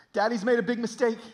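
high, loud, urgent re-enacted apology; tearful pleading. Father apologizing to his three little kids, pleading. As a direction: plead desperately with your children. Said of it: "I'm, like, pleading with them".

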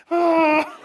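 high, loud, laughing cry of joy; delighted squeal. Retold or imitated. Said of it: "Jeannie's like".

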